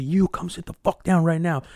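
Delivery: mildly hammed-up drill order; bossy order. Old man ordering the kids to sit, bossy.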